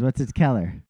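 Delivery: imitated Pittsburgh accent, "color" turned into "keller"; akcent pittsburski. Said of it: "is a Keller".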